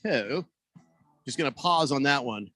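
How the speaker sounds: winded, catching breath between phrases. Real, not acted. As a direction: talk while still panting a little. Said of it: "I'm a little out of breath".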